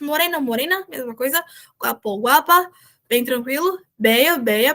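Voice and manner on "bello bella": "Beia, beia" with a gliding i in place of ll. Shown as a demonstration. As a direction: say the ll of "bello" as "beio". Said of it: "o L L como se fosse um I".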